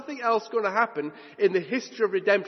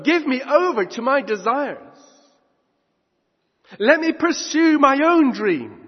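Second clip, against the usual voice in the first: raised, louder, pleading voice of a selfish believer; mock self-centred worshipper; 3 semitones higher, 4 dB louder than usual. Preacher mimics a worshipper who wants God gone, raised and pleading. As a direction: whine at God like someone who wants to be left alone. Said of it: "as I say".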